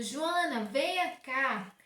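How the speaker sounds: "Joana, venha cá" as a slow falling command; exclamation tone. Shown as a demonstration. Teacher showing the exclamation in a WhatsApp message, commanding. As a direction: order Joana over, firm. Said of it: "pra me exclamar e dizer que eu tô dando uma ordem".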